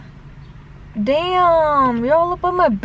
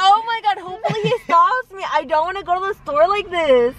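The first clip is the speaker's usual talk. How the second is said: mock worried voice; 5 semitones higher than usual. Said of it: "I was like".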